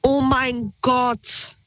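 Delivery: slow, drawn-out mock exasperation; retold weary disbelief, very slow; exasperated thought. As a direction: stretch each word, as if thinking it in disbelief.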